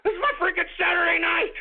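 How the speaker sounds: exasperated yell. Acted. Ranting host yelling at trolls.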